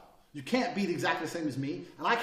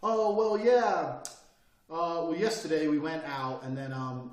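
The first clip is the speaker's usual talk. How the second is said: mock umming speaker; 3 dB louder, slower than usual. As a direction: imitate someone stumbling over um and well. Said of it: "when I sit there and listen to people".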